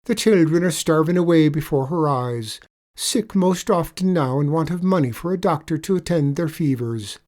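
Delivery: sly leprechaun. Acted. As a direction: lay the sorrow on thick.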